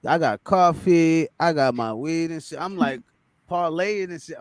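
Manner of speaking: a bit tipsy, loose and slurred. Real, not acted. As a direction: talk like you've had a few drinks. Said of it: "I'm over here tipsy".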